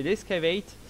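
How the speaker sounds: "escavate" as English "ess-ka-veït", French-accented. Real, not acted. Streamer corrects a command name for viewers, French-accented English. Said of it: "désolé pour mon accent qui doit certainement être".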